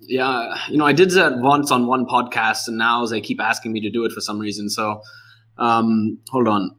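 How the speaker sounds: put-on reluctant, in a comic German accent. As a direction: keep up the German accent while getting ready to switch. Still in character before switching accent.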